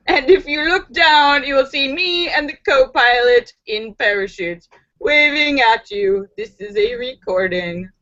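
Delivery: lightly voiced pilot patter; airline pilot announcement. Pilot addresses the passengers, in recorded-announcement style. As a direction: carry on the cabin announcement evenly. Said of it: "heard the pilot's voice say".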